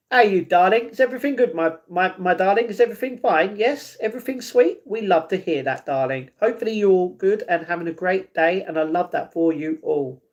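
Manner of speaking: lightly put-on dapper British accent, rising questions. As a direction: play the sweet-talking British charmer a little. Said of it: "but I can talk like that".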